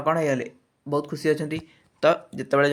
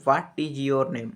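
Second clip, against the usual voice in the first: ହ୍ୱାଟ୍ stressed, then ଇଜ୍ ୟୋର୍ ନେମ୍ falling away. Shown as a demonstration. Teacher asking a question, falling tone from ହ୍ୱାଟ୍ down to ନେମ୍. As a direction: start firm on ହ୍ୱାଟ୍ and ease down. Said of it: "ଏ ମନେକର ମୁଁ କହିବି".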